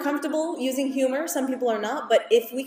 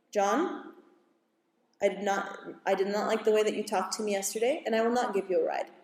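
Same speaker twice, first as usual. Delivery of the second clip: quiet, steady refusal, no anger in it; calm firm parent; 2 semitones lower, 4 dB quieter than usual. Retold or imitated. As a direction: hold your ground calmly and softly. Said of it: "you turn to him and you say".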